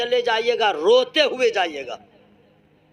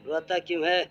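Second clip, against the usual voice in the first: grandfather's dialogue; 3 semitones lower than usual. Acted. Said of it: "جو dialog مارتا ہے".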